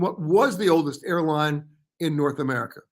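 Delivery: "was" picked out as the key word; stress on WAS. Real, not acted. Host repeating the second trivia question, stress on WAS. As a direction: put the emphasis on "was" in the question. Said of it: "emphasis on the word was".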